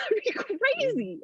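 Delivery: giggling through it, slowed; laughing at the thought; amused, slow giggle. Real, not acted. Laughing at her own idea.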